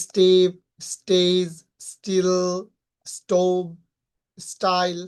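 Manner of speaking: "স্টেপ, স্টেজ, স্টিল" with plain T after S; unaspirated T. Shown as a demonstration. Teacher listing S-plus-T examples, unaspirated T. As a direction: hold back the puff in "স্টোভ, স্টাইল". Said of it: "non স্প্রাইডেড sound".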